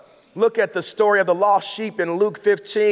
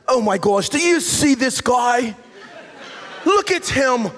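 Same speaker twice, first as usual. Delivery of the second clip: snooty Pharisee; 2 semitones higher than usual. Retold or imitated. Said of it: "I imagine like this".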